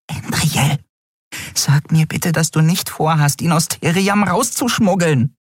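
hohe, aufgeregte Frauenstimme; hoch und empört, fassungslos; aufgebrachte Freundin. Acted. Nelen pleading high. (hohe, empörte Stimme der Freundin)

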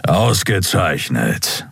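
slow rumbling grumble; grumbled. Acted. Captain Thron grumbles approval to his crew, slow. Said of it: "brummte Kapitän Thron".

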